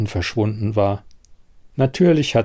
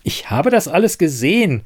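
a touch higher, insistent; agitated; 5 semitones higher than usual. Acted. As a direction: insist on what you saw. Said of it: "erregte sich Siren".

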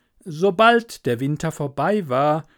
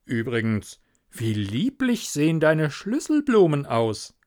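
pompous miller. Acted. Miller lecturing Hans on friendship, pompous.

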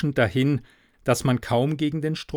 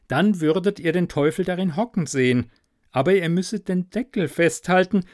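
sly instructions; 3 semitones higher than usual. Acted. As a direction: announce the wizard's orders with mock gravity. Klaus relays wizard's instructions.

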